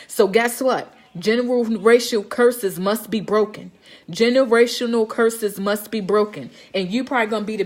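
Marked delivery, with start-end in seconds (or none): 1.2-3.7 slow, deliberate slogan; emphatic declaration. Real, not acted. Deliberate repeated slogan, slowed. 4.1-6.5 slow, measured repeat of a slogan; emphatic declaration. Real, not acted. Deliberate repeated slogan, slowed.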